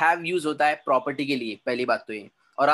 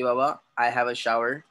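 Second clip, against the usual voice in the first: mock English gent, slowly; 3 semitones lower, much slower than usual. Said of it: "इंग्रज लोक बोलतात की".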